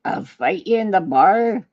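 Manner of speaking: rough attempt at a Scottish pirate accent; drawn-out, muddled Irish-or-Scottish brogue. Trying a pirate voice on a bar challenge, muddled Scottish accent. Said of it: "Irish or Scottish, the way you just said it".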